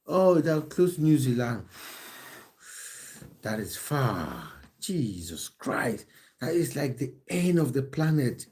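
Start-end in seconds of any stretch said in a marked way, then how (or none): 3.4-8.4 slow, drawn-out awe at how far away; amazed at the distance. Real, not acted. Streamer reacting to a viewer far away, slow and amazed. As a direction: stretch it out, stunned by the distance. Hears viewer is from New Zealand.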